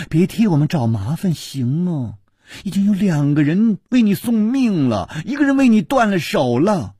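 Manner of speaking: exasperated reproach. A narrator's reading. Girl blaming him for others' losses, exasperated reproach. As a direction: pile up the grievances, pitch climbing.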